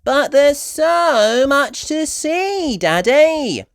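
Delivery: high, loud, slow pleading; eager cry. Acted. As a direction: urge Daddy excitedly. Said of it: "cried Peppa".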